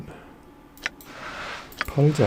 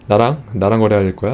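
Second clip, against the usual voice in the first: suspicious merchant; 5 dB louder than usual. Acted. Korean translation of suspicious merchant.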